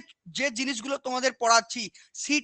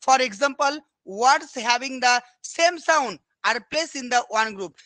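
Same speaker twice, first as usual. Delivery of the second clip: very slow, word by word dictation; slow dictating teacher; 3 dB louder, much slower than usual. Shown as a demonstration. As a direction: spell it out slowly for the students to copy. Teacher reading definition aloud.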